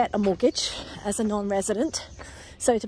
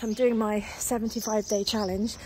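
winded from a brisk walk; talking while short of breath. Real, not acted. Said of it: "Sorry if I'm a bit out of breath".

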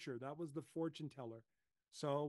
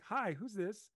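friendly hello; 6 semitones higher, 6 dB louder, slower than usual. Shown as a demonstration. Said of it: "Instead of going".

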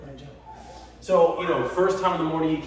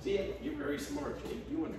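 high, sing-song dog-praise voice; squeaky praising a dog; 13 semitones higher, 6 dB quieter than usual. Real, not acted.

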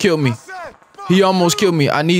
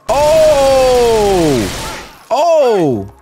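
startled shout; 3 semitones higher, much slower than usual. Real, not acted. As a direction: yelp at the explosion. Explosion reaction.

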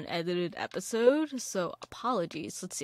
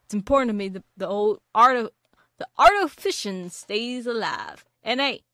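a hammed-up pirate greeting, louder; lightly voiced pirate, louder at the start; terrible pirate voice; 7 dB louder than usual. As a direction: play a badly done old sea dog hailing a newcomer. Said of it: "That is a terrible pirate impression".

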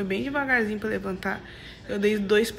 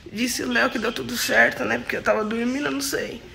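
drowsy, slurred post-surgery voice; groggy from anesthesia; 4 dB louder than usual. Real, not acted. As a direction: still coming out of anesthesia. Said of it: "A minha voz tá meio estranha". (voz grogue de anestesia)

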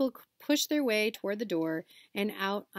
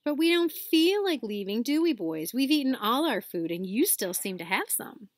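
higher, louder taunting schoolboy; mock the boys, smug; sneering boy; 4 semitones higher, 4 dB louder than usual. Malfoy's gang taunting Ron.

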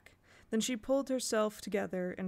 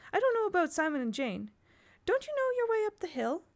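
higher, rushed alarmed babble; gabbling nonsense; 6 semitones higher, 3 dB louder than usual. A narrator's reading. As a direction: gabble on nervously to cover up. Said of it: "took refuge in gabbling nonsense".

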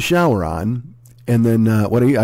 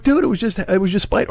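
pitched way up, whining the "Dude"; whiny protest; 9 semitones higher than usual. Retold or imitated. You pleading with Saint Pete at the gate, high whine. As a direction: plead like a kid caught out. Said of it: "And you're like".

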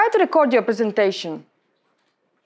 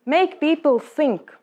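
slow, pausing delivery; 4 semitones higher, slower than usual. Shown as a demonstration. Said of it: "make pauses just to make people think".

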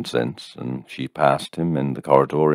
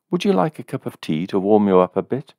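higher, fussing woman; lightly voiced landlady; 6 semitones higher, faster than usual. A narrator's reading. Landlady seeing the soaked visitor, mildly fussing. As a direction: fuss over him a little.

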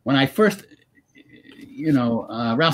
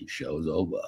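put-on son's Maine accent; 8 semitones lower, 4 dB quieter than usual. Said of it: "he'll just say".

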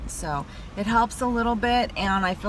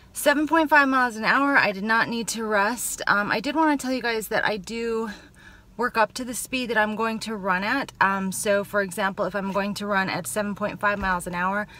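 winded after a workout; catching breath between phrases. Real, not acted. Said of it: "I'm still catching my breath".

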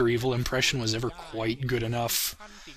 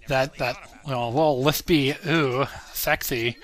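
flamboyant lisping voice; slower than usual. Shown as a demonstration. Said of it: "flamingly gay voice was".

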